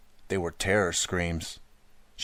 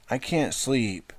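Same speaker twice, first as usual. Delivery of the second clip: put-on high, slow whining child; little sister whining she can't sleep; whiny little girl; 5 semitones higher, much slower than usual. A narrator's reading. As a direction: drag it out like a sleepy kid. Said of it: "she whined".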